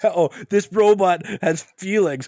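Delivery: high, fast hammed-up Bill Burr voice; Bill Burr impression. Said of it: "discount Bill Burr".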